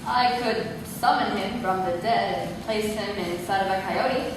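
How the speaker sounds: soft, low, sincere offer; quiet and low. Acted. Grandson's dark offer.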